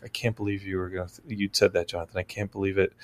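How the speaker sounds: quietly disappointed wife, lightly voiced; wife scolding her husband after the movie, mildly mimicked; mimicking wife's scolding. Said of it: "be like".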